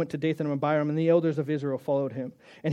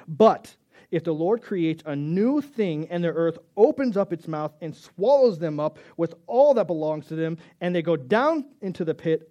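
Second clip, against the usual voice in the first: scripture reading, lightly voiced. Preacher reading Moses' challenge to the crowd, firmly. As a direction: read it out like Moses staking his claim.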